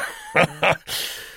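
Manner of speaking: short embarrassed laugh; awkward forced chuckle. Acted. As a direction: laugh it off, uneasily. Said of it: "He gave a forced laugh".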